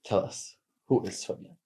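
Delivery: softly, almost whispering; a hushed, teasing question. Real, not acted. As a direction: lean in and ask it softly. Host poses intro question.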